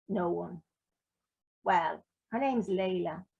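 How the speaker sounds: easy reading voice with lightly voiced characters; story narration. A narrator's reading. Author reading Little White Lies to the crowd, story narration. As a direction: read the scene aloud to the audience.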